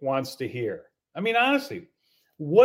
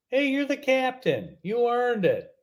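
higher-pitched, lively phone greeting; upbeat congratulation; 7 semitones higher than usual. Retold or imitated. Welcoming a player to the team, upbeat. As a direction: congratulate them brightly, mock phone call. Acting out nice congratulation call.

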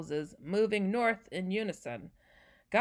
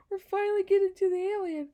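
excited; 10 semitones higher, 5 dB louder, faster than usual. Real, not acted. Laughing to tears, relieved.

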